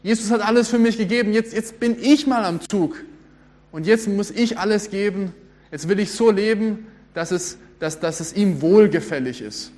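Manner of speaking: a touch of fired-up zeal, it's my turn now; motivated believer. Retold or imitated. Preacher mimics a motivated Christian for the congregation, mildly zealous. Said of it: "Man ist motiviert".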